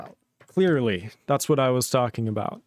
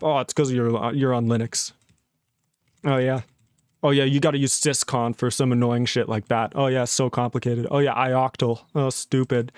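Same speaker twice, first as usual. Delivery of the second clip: mocking parody; 3 semitones lower than usual. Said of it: "I'm just gonna start saying everything".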